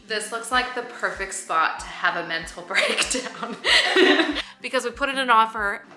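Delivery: breaking into giddy laughter mid-sentence; giddy laughter, real and helpless; laughing. Real, not acted. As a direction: laugh through the good news. Laughing, the offer got accepted.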